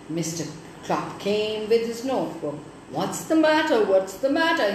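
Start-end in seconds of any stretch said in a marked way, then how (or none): 2.9-4.7 firm, louder policeman's demand; stern policeman asking the crying dame what's wrong. Acted. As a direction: question her like a stern constable. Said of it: "he said so sternly".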